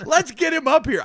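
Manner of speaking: high, loud forced hype; stage emcee. Retold or imitated. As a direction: plow on, announcing the next act. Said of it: "And I go".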